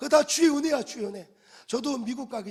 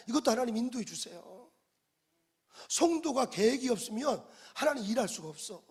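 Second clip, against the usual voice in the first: usual speaking voice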